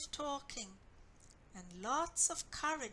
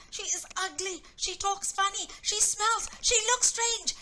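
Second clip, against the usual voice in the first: building rant; 5 semitones higher, 8 dB louder than usual. Acted. Joe rattling off reasons to Anna, rising to a shout. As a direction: list climbs higher and louder to a near shout.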